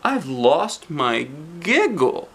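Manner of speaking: slow, sorry little voice; miserable. Acted. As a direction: confess it sadly, dragging the words. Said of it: "she explained miserably".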